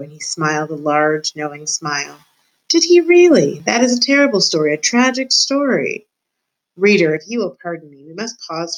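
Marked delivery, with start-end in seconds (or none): 2.7-6.0 higher, dramatic exclaiming; pitched to carry. A narrator's reading. Rat Roscuro reacting to Meg's sad story, pitched to carry. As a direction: start high and loud, with theatrical emphasis. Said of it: "Roscuro's voice was pitched perfectly".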